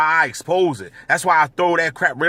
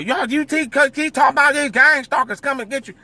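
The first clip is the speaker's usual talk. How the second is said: put-on southern accent uncle; 8 semitones higher than usual. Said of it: "that southern accent".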